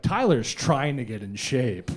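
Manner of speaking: slow ominous attack-ad narrator; mock a grave campaign-ad announcer; political attack ad voice. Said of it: "Political attack ad voice".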